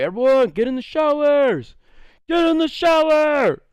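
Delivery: high-pitched mock order, climbing on the repeat; bossy call-out. Student aide ordering the class into showers, high call-out.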